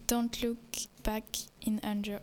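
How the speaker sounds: English title in a French accent. Real, not acted. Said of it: "j'ai un accent anglais, euh, pitoyable".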